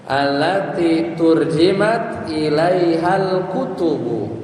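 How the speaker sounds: Arabic read slowly and deliberately; slow recitation. Shown as a demonstration. Teacher reciting the Arabic sentence slowly to the class. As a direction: recite the sentence carefully, word by word. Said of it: "Cocok tuh".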